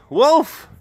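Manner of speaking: high-pitched mock cry for help; hammed-up boy crying wolf; mock yelling. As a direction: call out a false alarm to the village. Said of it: "he starts yelling".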